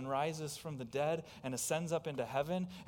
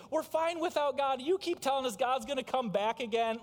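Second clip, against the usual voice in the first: higher and louder, sneering; mocking scoffer; 10 semitones higher, 7 dB louder than usual. Preacher voicing last-days scoffers, loud and sneering. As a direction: jeer at the warning. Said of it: "these scoffers in the last days will also say".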